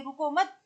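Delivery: "रुको मत" run together, rising on "मत" before a pause; मत के बाद विराम. Shown as a demonstration. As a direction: join "रुको मत" as one command, don't stop. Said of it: "हमने पहले बोला था". ("रुको मत" एक साथ, फिर विराम)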